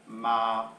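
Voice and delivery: MA in the low, downward tone; falling tone. Shown as a demonstration. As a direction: let MA sink gently and stay low. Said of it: "the accent going down".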